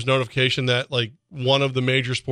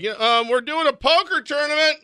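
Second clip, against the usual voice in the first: higher, breezy mock casino spokesman; casino spokesperson; 13 semitones higher than usual. Casino staff brushing off gambling losses, high cheery mock voice. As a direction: cover the losses with a cheery PR line. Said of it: "Rivers Casino may be like".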